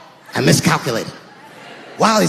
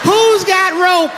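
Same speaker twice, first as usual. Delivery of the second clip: slow incredulous shout; 10 semitones higher, much slower than usual. Acted. Mocking rope claim.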